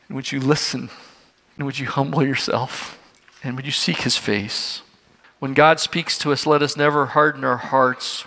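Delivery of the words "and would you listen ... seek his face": softly pleading, with pauses between questions; gentle appeal. Real, not acted. Preacher asking the congregation to humble themselves, gentle appeal. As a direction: invite them tenderly, a little hushed.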